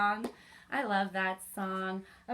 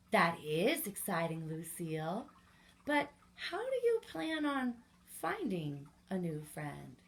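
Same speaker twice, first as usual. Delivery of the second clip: gentle mother; 3 semitones lower than usual. Acted. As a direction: answer like a calm mother humoring her child. Mom answers Lucy.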